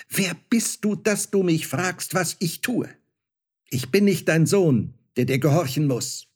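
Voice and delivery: put-on angry child. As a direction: stamp and flare up with wounded pride. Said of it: "wurde rot vor Zorn, stampfte mit dem Fuß".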